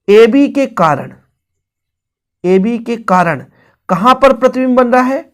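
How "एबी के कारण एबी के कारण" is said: slow emphatic repeat. Shown as a demonstration. Repeating the key phrase for students.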